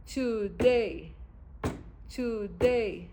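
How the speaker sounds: "today" with a strong, drawn-out DAY; second-syllable stress. Shown as a demonstration. Teacher showing an iambic word, stress on the second syllable. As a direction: lean hard on the "day" of "today". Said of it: "The second syllable must be the strong syllable".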